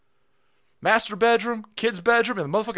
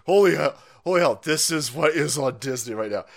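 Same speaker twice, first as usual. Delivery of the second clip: usual speaking voice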